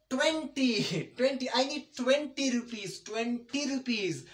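twenty as twenny, T silent; twenty said with a double N; British pronunciation. Shown as a demonstration. Teacher demonstrating, twenty without the T. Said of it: "Next one".

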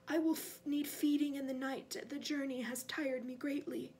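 weary, commanding master; cold master. Acted. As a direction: state your needs coolly to a servant. Voices the cold master in the story.

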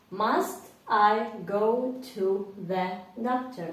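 slow model question. Shown as a demonstration. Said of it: "Повторіть".

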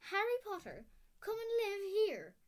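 stern witch crying out in disbelief; outraged exclamation. A narrator's reading. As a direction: sound scandalised at the very idea.

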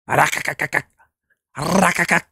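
playful mock growl. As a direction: growl at him like a beast. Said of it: "I was trying to growl at him".

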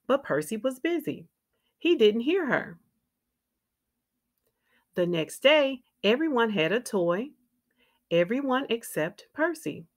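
put-on lively, clearly phrased read-aloud for young children; picture-book narration. A narrator's reading. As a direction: read a children's story with expressive ups and downs.

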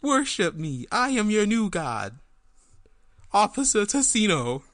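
high, booming self-proclaimed god; alien overlord. Acted. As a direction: demand worship, loud and slow. Puppet proclaims itself god.

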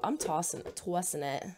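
tossing said with a New Jersey aw; light New Jersey accent slipping out. Real, not acted. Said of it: "My Jersey accent coming out".

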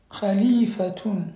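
Khalifatun spelt out slowly with a guttural kh, each syllable clear, ending tun; slow model pronunciation. Shown as a demonstration. Teacher to pupils, slowly modelling Khalifatun with guttural kh.

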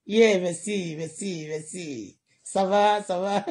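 breezy French pleasantries, fading to a murmur; mock polite Quebec French, trailing off; French small talk. Immigrant showing how she chats in Quebec French. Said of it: "when you speak French like this".

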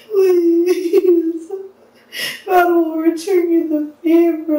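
tearful begging please; crying plea. Real, not acted. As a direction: beg through a sob.

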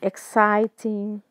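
slowly modelled exciting; slow teaching read. Shown as a demonstration. Teacher repeating a word slowly for students. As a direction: spell it out in sound for learners. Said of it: "Saiu errado".

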